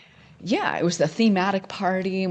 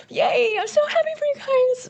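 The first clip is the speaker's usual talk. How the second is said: sharp gasp, then a shrill, much higher fake-happy squeal; sarcastic mock cheer; 6 dB louder than usual. Retelling her reaction, fake-happy squeal at the news. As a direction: gush with exaggerated fake delight, clearly insincere. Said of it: "and I'm like".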